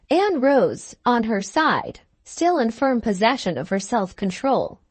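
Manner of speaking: ordinary delivery, nothing marked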